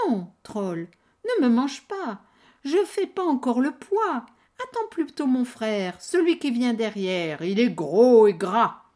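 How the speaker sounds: loud pleading goat. Acted. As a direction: beg the troll to wait.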